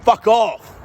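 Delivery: sudden high, loud blurt; mock outburst. A mock yell at the bikie pointing the gun. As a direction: spit it out in a squeaky yell. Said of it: "I'm like".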